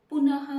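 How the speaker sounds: पुनः with a breathy ah at the end; visarga example. Shown as a demonstration. Teacher to children, showing visarga in पुनः. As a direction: sound the final h in पुनः. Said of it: "जैसे".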